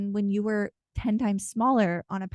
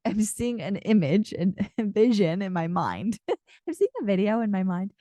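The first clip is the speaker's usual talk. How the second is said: laughing through words. Real, not acted. Laughing at her own slip.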